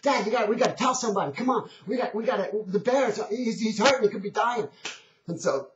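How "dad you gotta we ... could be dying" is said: put-on high, stammering child begging dad; upset little boy. Boy begging his dad to help the bear, upset. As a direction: plead urgently in a higher boy's voice. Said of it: "he's incredibly upset".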